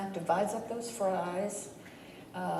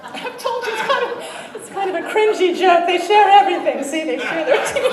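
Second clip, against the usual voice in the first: laughing loudly at his own joke; amused groan at his own pun; 8 semitones higher, 12 dB louder than usual. Real, not acted. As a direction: chuckle through the words, much louder and higher. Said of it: "That's a groaner, I know".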